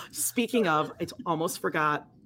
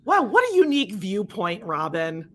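mock-impressed, pitched up then dropping on the name; sarcastic. Co-host mocking Robin's bland viewpoint, sarcastic. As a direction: feign amazement with heavy sarcasm. Sarcastic reply to book passage.

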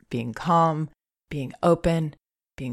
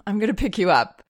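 put-on higher, telling baby what comes next; gentle announcement to baby; 4 semitones higher than usual. Shown as a demonstration. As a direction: explain before picking her up. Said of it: "you could even say".

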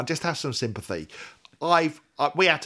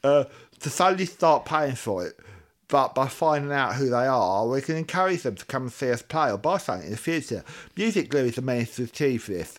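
long-tongue voice. Acted. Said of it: "someone with a long tongue".

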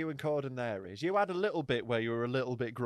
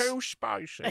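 higher squeaky too spicy; high mock whine; 8 semitones higher, much slower than usual. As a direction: whine it like a child. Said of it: "I sound like Goldilocks".

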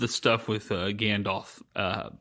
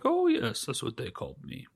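Gandalf voice; 4 dB quieter than usual. Retold or imitated. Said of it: "He was like".

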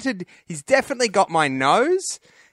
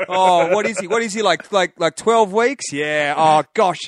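gushing stranger; 3 semitones higher, 4 dB louder than usual. Retold or imitated. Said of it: "And the guy's like".

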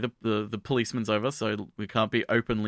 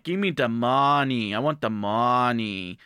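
slow, menacing robber voice, only lightly put on; a half-hearted stick-up, spelled out slowly; mock robber demand; slower than usual. Robber demands money in bank.

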